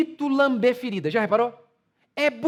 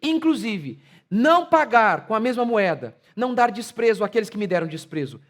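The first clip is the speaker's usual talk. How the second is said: confident declaration; 4 semitones lower than usual. Retold or imitated.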